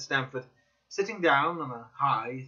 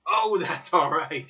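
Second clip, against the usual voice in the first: merry laugh; 4 semitones higher, 7 dB louder, slower than usual. A narrator's reading. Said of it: "he cried with a merry laugh".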